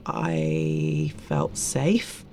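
low, very slow and soft; tender. Real, not acted. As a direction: let it sink in gently.

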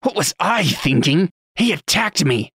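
injured man protesting he was attacked; indignant disbelief. A narrator's reading. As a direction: throw the question back in disbelief.

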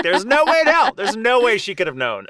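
high, loud astonished outburst; stunned disbelief. Retold or imitated. Podcaster reliving the psychic's accurate guess, astonished. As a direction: blurt out disbelief at the reveal.

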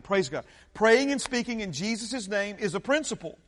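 loud fervent preaching. Acted. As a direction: preach it to the congregation. Preaching at full force.

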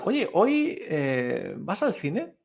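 casual "¿vas al cine?" asked with rising end; acted question. Someone asks about going to the cinema, questioning tune. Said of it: "como si te preguntaran".

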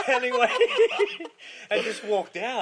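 cracking up mid-quote; laughing. Retold or imitated. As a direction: laugh out the last word. Retelling guy quitting, laughing.

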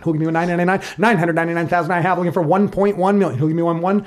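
fast auctioneer patter calling bids. Pretend. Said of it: "Can you please auction for us?".

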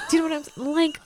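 put-on high Los Angeles Valley girl accent. Her own Valley girl accent, asking the clerk. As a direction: still in the flustered Santa Monica accent. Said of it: "that L A, like, Santa Monica accent".

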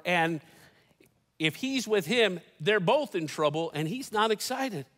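ordinary talk, nothing marked

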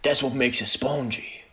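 put-on slow, soft French-accented catchphrase. Quoting Frenchie's line to the co-host, in a mock French accent. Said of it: "That was a terrible French accent".

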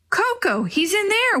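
high, excited call; excited cry. Acted. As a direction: cry out with joy at finding him. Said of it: "Willie cried".

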